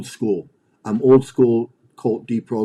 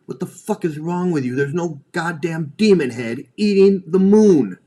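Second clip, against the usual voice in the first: incredulous yell; 6 semitones higher, 5 dB louder than usual. Retold or imitated. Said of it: "I wish someone would have said that".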